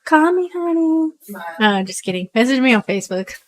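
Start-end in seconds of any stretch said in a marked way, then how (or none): 0.0-1.1 flirty. Pretend. Flirty sign-off to customers.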